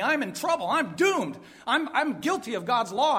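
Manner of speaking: high-pitched, dramatized panic; acted dismay. Preacher voicing a sinner caught by the law, dismayed. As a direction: play the dawning of doom. Acts sinner realizing his guilt.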